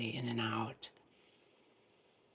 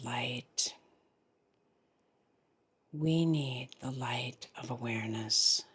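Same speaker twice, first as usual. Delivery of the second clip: guided meditation. Real, not acted. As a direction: lead them gently into the breath, phrase by phrase.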